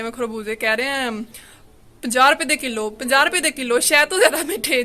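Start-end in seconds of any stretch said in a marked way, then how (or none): 2.0-4.8 lightly imitating a street hawker's sales call; a hint of a market vendor pitching to customers; vegetable seller voice. Narrator mimics the vendor selling melons to women, lightly hawking. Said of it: "ऐसे जैसे बोलते हैं सब्जियों वाले".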